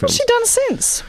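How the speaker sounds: mock haughty. Mock snooty question.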